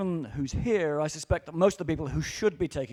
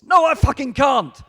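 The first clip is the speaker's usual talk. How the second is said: loud, high-pitched exasperated outburst; angry shout; 9 semitones higher, 13 dB louder than usual. Real, not acted. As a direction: shout the refusal at full force. Ranting retort to lazy developers.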